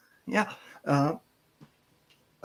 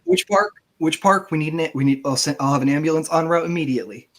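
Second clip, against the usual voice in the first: panicked secretary; 3 semitones higher, faster than usual. Acted. Secretary frantically asking where the caller is. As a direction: scramble to get an ambulance out.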